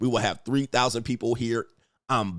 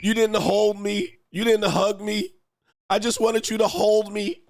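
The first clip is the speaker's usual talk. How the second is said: milk the grievance like a weepy wife; mock-tearful wife; 8 semitones higher than usual. Wife's tearful letter, acted.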